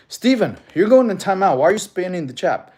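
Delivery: firm, loud reprimand; scolding. Real, not acted. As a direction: call out a misbehaving chatter. Scolds a chat spammer.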